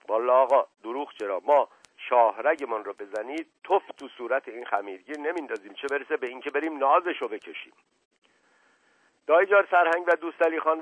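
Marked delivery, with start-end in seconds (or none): 0.1-7.7 lightly voiced evasive servant; a hint of a humble servant, hedging as he reports; reluctant servant. Servant refuses the errand.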